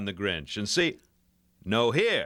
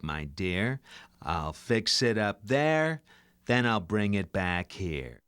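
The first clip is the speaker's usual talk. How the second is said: Jack Nicholson impression. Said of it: "How about a little Jack?".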